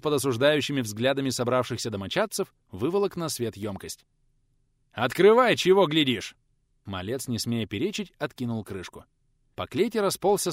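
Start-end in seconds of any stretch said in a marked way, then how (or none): 4.9-6.4 loud, high command; gruff teacher, loud and impatient; harsh order. Acted. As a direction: bark at him to open it.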